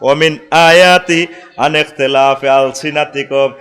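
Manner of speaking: Quran recitation. Acted. Preacher recites the Quran verse to the crowd in slow chant. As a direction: draw each word out in a sung recitation.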